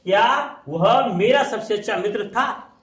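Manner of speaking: slow careful read, rising on मेरा at the question; corrected sentence. Shown as a demonstration. Teacher dictating the corrected Hindi to students, slow and careful. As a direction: say it slowly with the tune rising on मेरा. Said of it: "शुद्ध कर लो".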